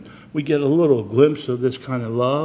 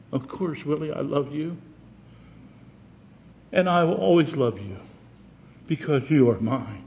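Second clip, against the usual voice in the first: tender mother; 2 semitones higher than usual. Retold or imitated. Mother reassures scarred son.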